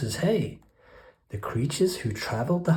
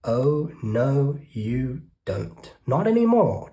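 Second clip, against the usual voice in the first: declaring rat. Acted. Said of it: "declared the highway thief".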